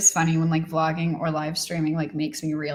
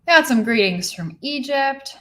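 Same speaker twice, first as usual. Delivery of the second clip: higher, louder happy shout-out; excited greeting; 6 semitones higher, 5 dB louder than usual. Real, not acted. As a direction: announce it with delight. Reading viewer greeting.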